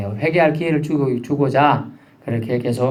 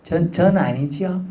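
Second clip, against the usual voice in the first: guilty denial; 3 semitones higher, 4 dB quieter, slower than usual. Retold or imitated. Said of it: "좀 조금 찔리는 표정".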